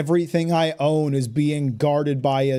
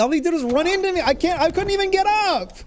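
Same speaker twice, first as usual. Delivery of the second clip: exasperated cry; 13 semitones higher, faster than usual. Real, not acted. Dying again to super boss.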